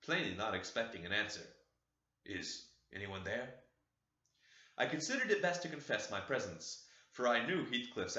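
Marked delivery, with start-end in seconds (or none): 2.2-3.5 soft, low, hushed question; half whisper. Acted. Heathcliff at the chamber door, soft half whisper. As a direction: ask the dark room quietly. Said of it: "he said in a half whisper".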